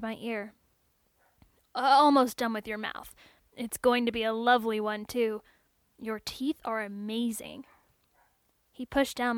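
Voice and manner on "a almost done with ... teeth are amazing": a lightly voiced upbeat technician, louder; chatty tech reassuring his android; cheerful technician. Technician chatting to android on the table, lightly voiced upbeat.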